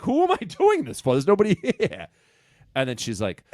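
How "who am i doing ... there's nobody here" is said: higher, laughing through the words; half-laugh at the empty room; baffled actor laughing at an empty room; laughing disbelief. Retold or imitated. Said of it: "So I'm like".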